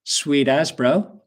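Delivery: slow, drawn-out sweet as bro; laid-back Kiwi sweet as bro; slang phrase. Shown as a demonstration. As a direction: say sweet as bro slowly, rising on bro. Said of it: "the next expression is".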